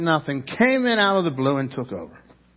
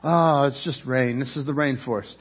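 soft, easy reassurance, a touch of it; calming voice; 3 semitones lower, 5 dB quieter than usual. Retold or imitated. Guide Daniel calming frightened guests, gently reassuring. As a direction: lightly imitate a calm guide soothing scared visitors. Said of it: "he's trying to calm us down".

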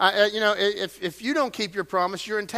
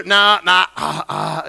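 stumbling hesitation; 8 dB louder, slower than usual. Retold or imitated. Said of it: "I get the stumbling effect".

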